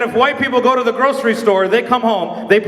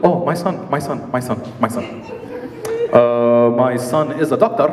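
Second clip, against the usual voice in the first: low Arab mom voice; 10 semitones lower than usual. Retold or imitated. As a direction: stall proudly like an Arab mom.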